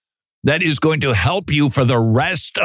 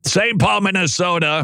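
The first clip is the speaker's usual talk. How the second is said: "Saint Paul" said higher, with a mock choked-up catch; mock emotional; 5 semitones higher than usual. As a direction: pretend to be moved by "Minnesota". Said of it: "I get emotional".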